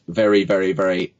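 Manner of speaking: firm V on each "very"; windless V. Shown as a demonstration. Coach shows V makes no wind, firm "very". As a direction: teeth on lip for every "very". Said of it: "no wind".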